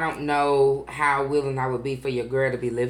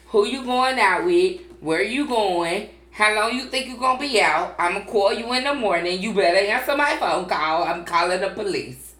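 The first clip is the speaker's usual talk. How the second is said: mock interrogation; 2 semitones higher than usual. Daughter grilling her mom about her date, interrogating. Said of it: "she telling me".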